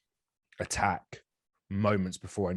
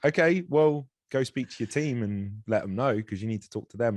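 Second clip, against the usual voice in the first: director's voice; 5 semitones higher, 5 dB louder than usual. Retold or imitated. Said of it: "he was like".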